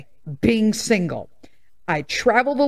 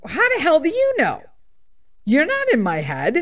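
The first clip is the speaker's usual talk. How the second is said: retold angry retort; 6 semitones higher than usual. Argument with male therapist.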